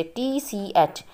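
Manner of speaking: each letter drawn out slowly; slow, deliberate spelling. Shown as a demonstration. Teacher spelling out the trigraph for students, slow and deliberate. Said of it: "तो ये सब ट्राइग्राफ हैं इसमें से".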